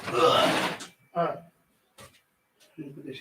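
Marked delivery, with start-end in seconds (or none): 0.1-0.8 tired groan. Real, not acted. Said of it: "That's like a workout".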